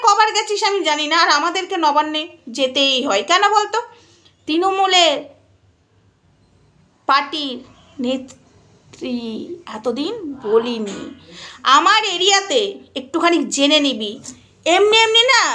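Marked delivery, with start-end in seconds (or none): 4.5-11.0 drawn out, much lower and softer; dramatic slow reveal; slow dramatic pause. Real, not acted. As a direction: let each word hang heavily. Slow low dramatic aside.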